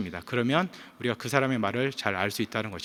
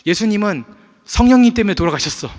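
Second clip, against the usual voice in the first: put-on much higher and louder, defiant child; boldly declared; 9 semitones higher, 9 dB louder than usual. Son insisting to his sister, high loud and defiant. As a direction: announce it triumphantly like a stubborn seven-year-old. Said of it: "당차게 얘기합니다".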